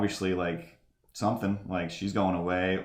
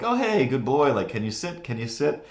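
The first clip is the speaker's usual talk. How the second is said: cooing at a dog; 5 semitones higher than usual. Retold or imitated. Narrator stops on the step to coo at the dog. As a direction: coax the dog like a puppy.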